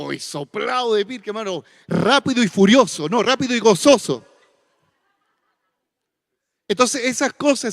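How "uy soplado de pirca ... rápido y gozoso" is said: louder, playful boast; joking reply. Retold or imitated. Preacher answers his wife with a louder joking boast. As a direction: hype it up, fast and furious. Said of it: "Y yo".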